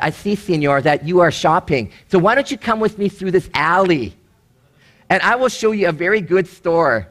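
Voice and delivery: lightly imitated Mexican street tout; half-hearted Mexican accent, coaxing a tourist; attempted Mexican accent. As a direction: badly attempt a Mexican accent, measured and inviting. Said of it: "I can't do the accent".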